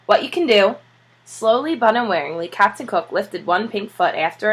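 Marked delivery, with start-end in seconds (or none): 0.0-0.8 winded, talking while climbing; out of breath. Acted. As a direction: puff through the words. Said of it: "panting up the steps".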